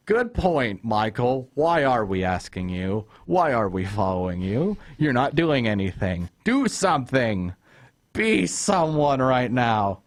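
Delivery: sarcastic opening, then pleading exasperation, words stretched at the end; fed-up fan telling off a character; exasperated mock rant. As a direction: scold the hapless boss, building to drawn-out commands.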